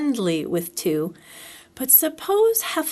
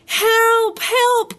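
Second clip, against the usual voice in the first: high, loud panicked squeal; Piglet crying out; 12 semitones higher, 5 dB louder than usual. A narrator's reading. Piglet sees a Heffalump in the trap, panicked cry. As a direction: shriek for help in a tiny panicked voice. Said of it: "cried Piglet".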